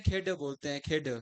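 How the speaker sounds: खेड ending in a retroflex ड, not ल; खेड for खेल, Haryanvi style; Haryanvi pronunciation. Shown as a demonstration. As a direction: close खेड with a curled-back ड. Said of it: "खेल ना बोलकर क्या बोलते हैं".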